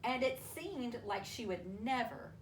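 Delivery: expressive picture-book storytelling with long pauses; reading to children. A narrator's reading. Teacher reading a worry story to children, storytelling voice.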